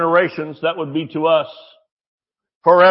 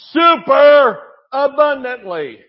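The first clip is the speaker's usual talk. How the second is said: preaching shout; 5 semitones higher, 4 dB louder, slower than usual. Real, not acted. Preaching emphasis.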